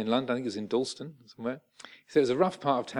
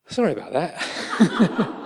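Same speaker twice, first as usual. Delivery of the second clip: laughing apology; 6 semitones higher, 7 dB louder, slower than usual. Retold or imitated. Aggressor suddenly apologetic.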